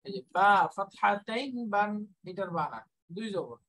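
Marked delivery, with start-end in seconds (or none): 0.4-1.9 বা ফাতহাতাইন বান, ending in a clear n; spelling-out recitation. Shown as a demonstration. Teacher showing the nun in tanween, spelling-out recitation of বা ফাতহাতাইন বান. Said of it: "দুইটা একই উচ্চারণ".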